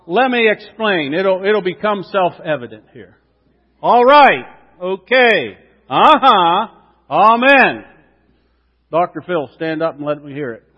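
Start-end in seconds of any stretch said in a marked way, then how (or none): 3.8-7.8 loud, eager church call-and-response; enthusiastic. Shown as a demonstration. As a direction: pump it up like a revival. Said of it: "let me hear you that with some enthusiasm".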